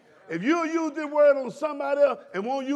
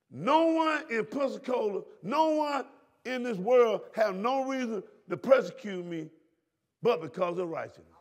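preaching shout. Acted. Preacher declaring to congregation.

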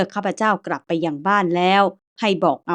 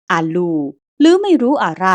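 put-on Chinese-accented Thai, exclaiming; 5 dB louder than usual. Old ghost uncle answers the boy in Chinese-accented Thai. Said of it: "ตาแปะพูดภาษาไทยแต่สำเนียงจีน".

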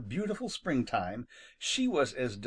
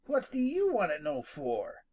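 suspicious; 4 semitones higher than usual. Acted. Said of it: "he demanded suspiciously".

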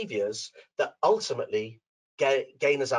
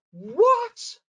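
high, loud indignant squawk; outraged disbelief; squeaky shocked cry; shocked what; 5 dB louder than usual. Retold or imitated. Kayla shocked by husband.

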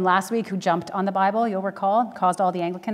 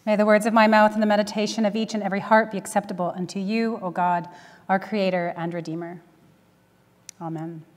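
prayer; 3 dB quieter, faster than usual. Acted. Opening prayer before sermon.

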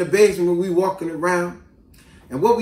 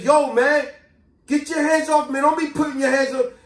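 retold protest; 7 semitones higher than usual. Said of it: "And I was like".

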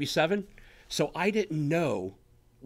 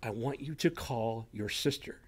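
soft inner voice; 4 semitones lower, 6 dB quieter than usual. Retold or imitated. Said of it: "something simple like".

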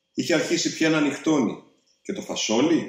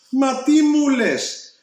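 much higher and louder, slow and stunned; shocked disbelief; 10 semitones higher, 4 dB louder, slower than usual. A narrator's reading. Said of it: "ρωτάει η μαμά του".

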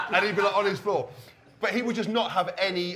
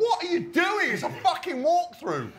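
high, loud, laughing incredulous shout; mock outraged yell; 13 semitones higher, 4 dB louder than usual. Player yelling at a teammate who punched him, mock outraged shout. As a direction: bellow it, dragging out walkthrough.

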